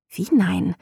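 incredulous challenge. A narrator's reading. Visitor challenges his refusal.

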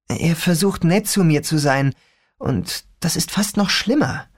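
put-on a young girl griping about her father; teen girl voice. Rachel complaining about her dad.

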